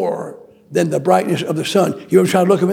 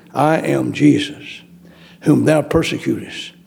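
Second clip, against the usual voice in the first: solemn voice of Jesus; 4 semitones lower than usual. Acted. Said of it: "he said in the first person".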